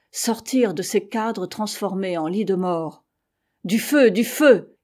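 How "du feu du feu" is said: loud, slow cry for help; plaintive cry. A narrator's reading. Freezing sick men crying from their beds, plaintive cry. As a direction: call out slowly, voice lifted. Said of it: "criaient les infortunés malades".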